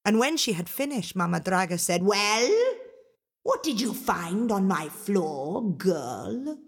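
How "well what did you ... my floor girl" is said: slow, probing ogress question; a touch of menace; lightly voiced ogress. Mama Draga questioning Angelina after sweeping, mildly menacing.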